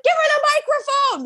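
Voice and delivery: very high, thrilled command; excited pastor. Retold or imitated. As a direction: pass on the pastor's eager order. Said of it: "He's like".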